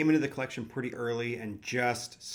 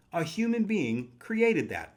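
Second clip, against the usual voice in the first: slow, higher and louder, full of wonder; awestruck; 7 semitones higher, 6 dB louder, slower than usual. Real, not acted. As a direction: marvel at it out loud. Awed by a man-made card.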